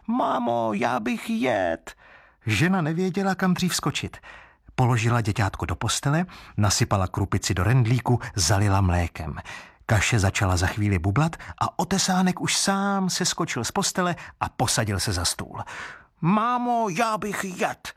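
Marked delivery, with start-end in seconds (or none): 0.1-1.9 put-on much higher, childish wooden baby whine; a greedy little creature begging for food; hungry baby crying out. Wooden baby demands food from his mother, high and whining. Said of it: "a křičet". 16.2-17.9 put-on much higher, childish wooden baby whine; a greedy little creature begging for food; hungry baby crying out. Wooden baby demands food from his mother, high and whining. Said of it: "zase křičel".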